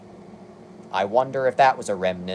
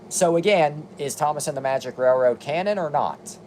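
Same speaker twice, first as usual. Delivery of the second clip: exasperated; 5 semitones higher than usual. Real, not acted. Mock-outraged rhetorical question.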